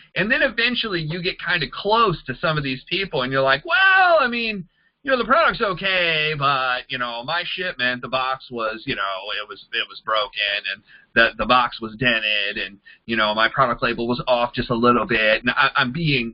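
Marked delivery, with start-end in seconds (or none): 3.6-15.4 exaggerated acted grumbling, super sarcastic, nitpicking, laid on. Imitating a distributor's complaints about a damaged shipment: mocking a complaining distributor, super sarcastic. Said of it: "super sarcastic here just to kinda get".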